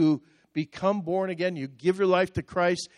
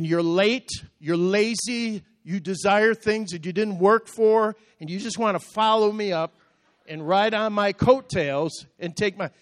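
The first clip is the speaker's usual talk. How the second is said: raised, higher-pitched heated accusations; judgmental rant; 5 semitones higher, 4 dB louder than usual. Retold or imitated. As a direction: reel off a scornful inner tirade. Retells his angry judging thoughts.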